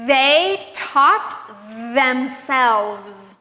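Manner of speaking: long buzzing TH opening They and themselves; prolonged voiced TH. Shown as a demonstration. Teacher modeling practice sentences, exaggerating the voiced TH in They and themselves. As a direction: hold and voice the TH in They and themselves, chunk by chunk. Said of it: "voiced T H sounds at the beginning".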